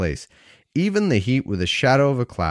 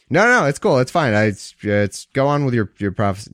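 1 mock God. God voiced in a joke dialogue.

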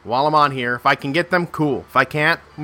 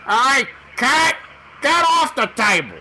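yelling at cat; 10 semitones higher than usual. Acted. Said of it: "Sorry, I was yelling at my cat".

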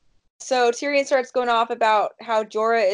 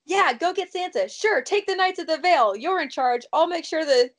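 higher, eager yes-woman voice; mock gullible Cersei; 4 semitones higher than usual. Mocking Cersei agreeing to Littlefinger, high and eager. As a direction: play her agreeing to everything, overeager. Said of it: "She's just like".

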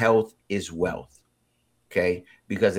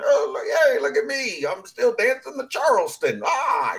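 high-pitched, louder, hammed-up spry old person; spry oldster voice; 3 dB louder than usual. Host playing an old person still dancing, high hammed-up voice. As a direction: squeal it like a spry oldster showing off. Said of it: "why I did that voice".

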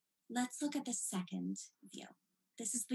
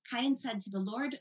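astonished, rising at the end; surprised; 2 semitones higher than usual. Shown as a demonstration. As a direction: read it as a big surprise. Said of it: "one of the biggest surprises that the Torah gives you".

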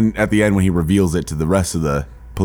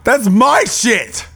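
excited; 13 semitones higher, much slower than usual. Real, not acted. Excited outburst.

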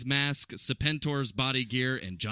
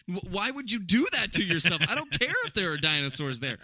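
put-on high, loud childish disbelief; a hint of a scared kid; kid's incredulous voice; 7 semitones higher, 4 dB louder than usual. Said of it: "I was like".

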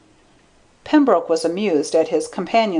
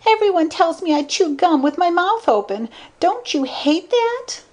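very high put-on woman's voice; pleading blonde; 12 semitones higher than usual. A narrator's reading. Blonde confessing a bad habit to Spencer, high pleading voice. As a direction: plead in a high voice, climbing higher on the final question. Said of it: "she pleaded".

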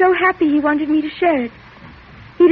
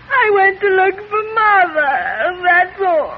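tearful; 3 semitones higher, slower than usual. Acted. Daughter confesses, breaking down.

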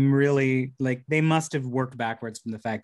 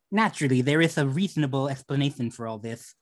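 Daffy Duck lisp. Acted. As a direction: lisp every s sound. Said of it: "I can give you a Daffy Duck".

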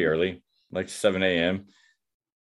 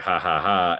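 spoken, deliberate fake laugh; mock laugh. Friend teasing about the tracksuit, mock laughing. Friend mocking a sincere plea.

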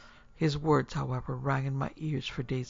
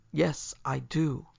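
sharply; slower than usual. Acted. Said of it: "he interrupted sharply".

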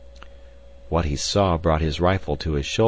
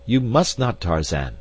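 crying out; 4 semitones higher, 3 dB louder than usual. Acted. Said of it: "cried D'Arnot".

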